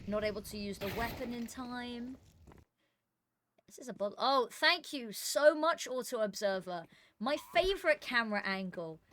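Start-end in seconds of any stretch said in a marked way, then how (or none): 4.2-9.0 slow, drawn-out sarcastic thanks; mock gratitude, dripping sarcasm. Real, not acted. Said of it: "That was sarcastic".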